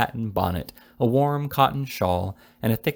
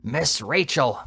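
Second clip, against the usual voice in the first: mild mock shout; 3 semitones higher, slower than usual. A narrator's reading. The fat boy half-shouts the name into the old lady's ear. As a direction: call the name without much force. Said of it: "shouted in the old lady's ear".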